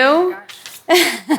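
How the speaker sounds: high, delighted gasp of surprise; surprised delight. Real, not acted. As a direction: react as if the gift overwhelms you. Receiving gift, surprised.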